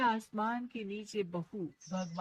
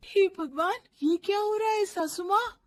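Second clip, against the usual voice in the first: higher, louder shocked cry; 8 semitones higher, 6 dB louder than usual. Acted. Daughter-in-law shocked as mother-in-law freezes, loud. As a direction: gasp at the frozen mother-in-law.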